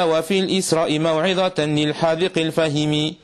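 measured Arabic verse recitation with sustained line endings; steady chanted-style didactic poem reading. Acted. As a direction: recite the verses in an even, continuous metre.

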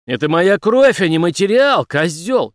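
Henry yells at the doctor in sudden anger; sudden fury. Acted. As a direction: blow up at the doctor. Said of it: "неожиданно разозлился Генри".

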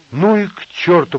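high, loud dismissive exclamation; sudden eager outburst. A narrator's reading. Asya jumping up at midnight, excited outburst. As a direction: toss it off with sudden energy. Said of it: "подпрыгнула Ася".

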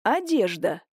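dry, mocking одежда; sarcastic echo of одежда; snide. A narrator's reading. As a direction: throw the word back at her. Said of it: "ехидно посмотрел на неё Никитич".

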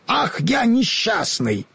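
mild lament. A narrator's reading. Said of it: "чуть не зарыдал я".

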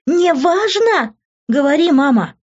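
very high, stretched outraged repeat; indignant demand at the top of the voice; hysterical indignation. A narrator's reading. Daughter demanding the truth from mum, hysterical indignation. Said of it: "истерически возмутилась я".

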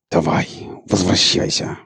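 hissing through teeth. Acted. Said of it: "прошипел он сквозь зубы".

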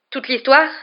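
high, loud questioning repeat; indignant, rising question; incredulous echo. A narrator's reading. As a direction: throw the words back in disbelief. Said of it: "répéta Harry".

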